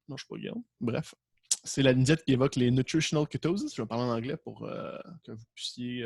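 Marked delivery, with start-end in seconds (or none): 2.7-3.7 "nutritional ketosis" in a heavy Québécois accent; mock-proud French accent on "nutritional ketosis"; French-accented English. Shown as a demonstration. Teacher to class, showing off her French accent in English. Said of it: "observer mon superbe accent".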